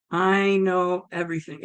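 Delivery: lightly voiced solemn deity; voice of God. God to the woman, lightly voiced solemn assurance. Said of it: "And it was like".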